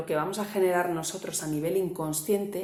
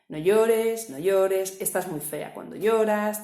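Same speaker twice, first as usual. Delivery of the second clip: louder, mock scolding of a crying child; scolding mother; 3 semitones higher, 5 dB louder, slower than usual. Mother scolds her crying daughter, louder and sharp. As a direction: snap at the little girl to stop crying. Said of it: "inmediatamente empieza a decirme".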